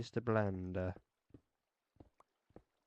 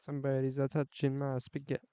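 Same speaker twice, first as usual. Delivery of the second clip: hammed-up Italian accent with an added "a"; mock Italian accent. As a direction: play a cartoon Italian chef. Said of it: "very thick Italian accent".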